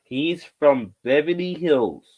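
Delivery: 慢慢地一字一顿: He's from Beverly Hills; slow and emphatic. Shown as a demonstration. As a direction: spell it out slowly for the crowd. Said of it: "Get it right".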